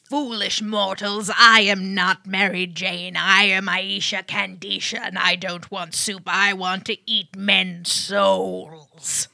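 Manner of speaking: put-on slow, menacing demon-child voice; slow theatrical villain menace. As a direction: growl it out like a possessed villain. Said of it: "You murdered it".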